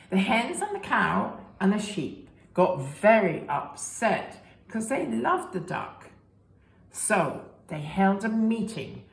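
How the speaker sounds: lively storybook reading voice; reading to children. A narrator's reading. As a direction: read it to little ones with big expression. Reading picture book to children.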